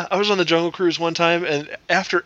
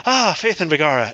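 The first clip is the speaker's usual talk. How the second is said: put-on Irish accent. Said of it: "my Irish accent always starts off with".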